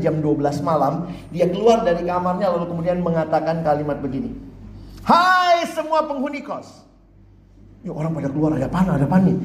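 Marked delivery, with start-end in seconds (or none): 5.1-6.8 high, slow call to the whole boarding house; midnight announcement. Acted. Boarder calling out to all residents at midnight, high and slow. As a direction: summon everyone with a grand announcement.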